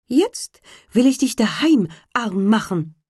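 a hint of the spiteful bird, threatening; threatening sparrow. A narrator's reading. Sparrow vowing revenge on the carter, lightly voiced bird.

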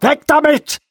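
high, loud barked command; shouted order. Acted. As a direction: yell it to get the thing away now. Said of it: "rief Bormann".

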